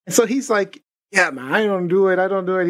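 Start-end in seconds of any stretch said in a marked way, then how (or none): 1.1-2.7 put-on light Hispanic accent on a casual man; a hint of a Hispanic accent. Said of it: "he was, uh, Hispanic".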